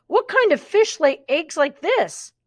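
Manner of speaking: baffled outcry; surprised. A narrator's reading. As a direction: ask in disbelief. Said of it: "he cried".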